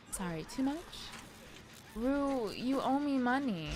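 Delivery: lightly voiced impression, pitched a bit high; Laurie. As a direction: lightly put on her odd way of talking. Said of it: "they need to generate her voice".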